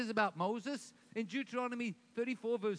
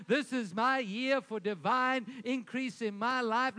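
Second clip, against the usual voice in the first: building from steady to loud, triumphant proclamation; rising declaration; 4 dB louder than usual. Shown as a demonstration. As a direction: swell into a victory claim. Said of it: "You should be declaring".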